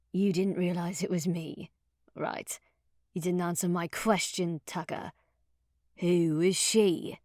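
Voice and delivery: mock his excuse, then press; grating stranger. Intruder presses O'Neill.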